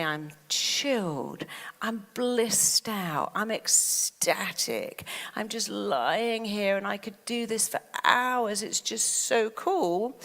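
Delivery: very slow, relaxed, savouring each phrase; blissed-out calm. Shown as a demonstration. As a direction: drift through it like lying in bed for hours. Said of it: "When you say".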